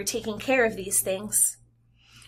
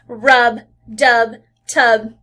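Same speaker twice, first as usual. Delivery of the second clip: Rub, dub, tub each punched louder; stressed rhymes; 5 dB louder, much slower than usual. Shown as a demonstration. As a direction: hit every rhyming word Rub, dub, tub. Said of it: "listen to those three rhyming words".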